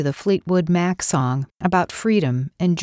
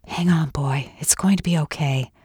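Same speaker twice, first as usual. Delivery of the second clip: whispered. A narrator's reading. Kathy soothing the injured dog, gentle whisper. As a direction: breathe comfort to him.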